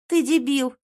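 high, loud outburst; furious insult. A narrator's reading. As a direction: spit it at him. Girlfriend insults him furiously.

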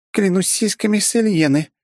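high, loud excited cry; excited exclamation. A narrator's reading. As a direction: shout it out in delight. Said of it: "воскликнула Фуори".

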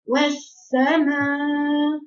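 والسماء said slowly through a barely open mouth; imitating a closed mouth. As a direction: mimic students mumbling والسماء. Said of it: "بعضكم بيقولها كده".

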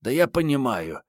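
high female voice, unruffled; cool assurance. A narrator's reading. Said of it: "хладнокровно заверила коллега". (хладнокровно, высоким женским голосом)

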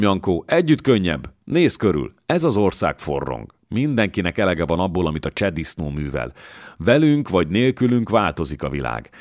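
lightly voiced lord, bold and coaxing; a light touch of a swaggering nobleman recruiting; coaxing a strong fighter to join, lightly voiced; scheming young lord. Miklós persuading Jankó.

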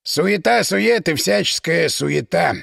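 usual speaking voice

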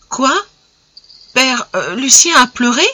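a daughter blurting out her shock; cried out in surprise. Acted. Daughter hearing from her father that Lucien wept, surprised cry. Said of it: "s'écria la jeune fille".

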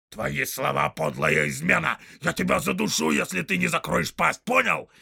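loud, high orc threat; threatening orc. Acted. Soldier threatening to strangle the tracker, loud. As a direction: choke him with the words.

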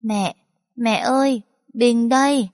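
put-on a little boy calling for his mum; small child's voice. A narrator's reading. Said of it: "tiếng Bình cất lên".

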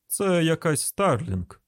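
mild call to the household. Acted. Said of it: "гукнув чоловік своїм домашнім".

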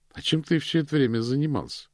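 a surprised high question. A narrator's reading. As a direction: ask it in real surprise. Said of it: "удивилась Ханна".

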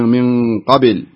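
قبل with the ب bounced toward an i, like "qabil"; imitated qalqala slip. Teacher repeating the caller's slip, قبل tinted toward kasra. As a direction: copy the mistake, قبل leaning into a kasra after the ب. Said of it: "سمعتك كررتيها وتقولين".

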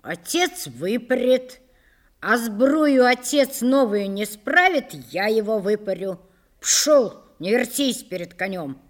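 stern telling-off with a touch of anger; scolding threat. Acted. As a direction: threaten and dismiss a servant. Master scolding and threatening his serf.

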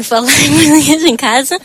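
giggling through the slogan; repeating the host's call with a real laugh. Real, not acted. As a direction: laugh while echoing it back.

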